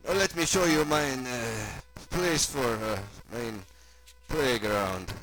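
put-on halting German-accented unveiling; German host, falling away at the end; German doctor character. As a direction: hesitate between words in a German accent.

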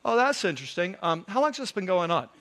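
calm, unruffled reply. Acted. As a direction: answer with mild, casual interest. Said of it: "He's very calm".

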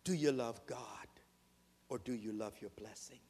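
breathy whispered question, dropping away; hushed whisper. Real, not acted. Preacher whispering a searching question to the congregation. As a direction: lean in and whisper it to the flock.

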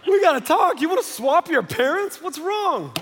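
loud, high call up the stairs; calling upstairs to his son. Retold or imitated. Dad calling his second grader down for a talk, loud and high. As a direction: shout for the boy to come down, not angry. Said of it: "now I'm not yelling at Laura".

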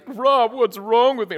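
a retold sob-choked plea, slow; retold weeping plea. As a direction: replay the breakdown, pleading and teary. Retelling weeping in boss's office.

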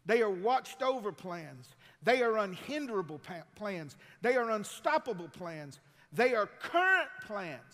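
loud, measured build, each clause hammered; full-force preaching. Acted. Preacher listing God's plans to the church, loud and building. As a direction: preach it like a drumbeat.

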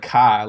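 "ka" said with no final R; "ka" ending on a bare open vowel; R dropped. Shown as a demonstration. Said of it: "you still say things like".

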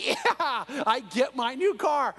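drawn-out happy cheer; excited. Retold or imitated. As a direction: savour the win you've been waiting for. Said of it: "And he's so excited".

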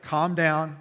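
ordinary talk, nothing marked

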